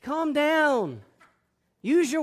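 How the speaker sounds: put-on loud, high scolding of a child; slow loud command to a son in a tantrum; exasperated dad telling his son to calm down; scolding father. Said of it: "But I just say".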